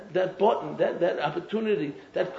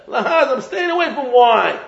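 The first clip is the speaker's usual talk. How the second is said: laughing, set apart from the preacher's own voice; man taking a vow; 4 semitones higher, 6 dB louder than usual. Pretend. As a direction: play a guy swearing off wine with a laugh.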